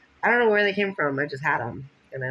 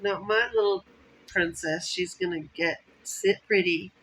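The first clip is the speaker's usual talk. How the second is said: voicing God; 5 semitones higher, 3 dB louder than usual. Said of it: "He was like".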